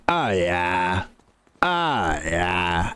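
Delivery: low, drawn-out mock moan; porn star gamer. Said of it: "when a porn star is a gamer".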